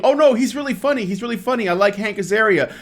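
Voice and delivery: high, sing-song mock of the guest's defence. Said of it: "And he keeps saying".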